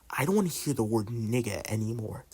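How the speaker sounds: imitated whisper. Student imitating teacher who pulled them aside, hushed. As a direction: drop right down as if speaking into an ear. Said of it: "she dead ass whispers in my ear".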